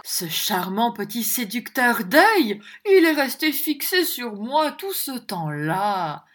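slow, lazily enraptured; languid rapture. Acted. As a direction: swoon over it lazily. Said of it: "une sorte d'extase de ravissement indolent".

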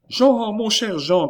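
slow, high, loud plea; cried out. A narrator's reading. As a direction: call to him imploringly, drawing it out. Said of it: "cria Chon". (appel aigu, implorant et traînant)

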